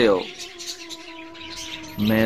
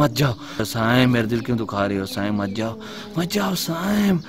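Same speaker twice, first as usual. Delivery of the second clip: anguished pleading; 4 semitones higher than usual. Acted. Owner begs Saim not to go, long high pleading. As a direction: plead with him not to leave, voice climbing.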